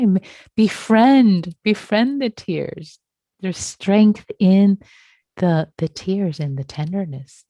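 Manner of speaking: slow, drawn-out and gentle; slow tender coaching; tender encouragement. Real, not acted. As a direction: linger on each word to reassure. Teacher encouraging student to accept tears.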